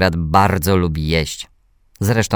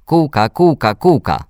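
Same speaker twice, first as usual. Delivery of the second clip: put-on loud, higher child's call, repeated; insistent little brother; 7 semitones higher, 5 dB louder than usual. A narrator's reading. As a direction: keep calling the word insistently. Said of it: "powtarzał ciągle".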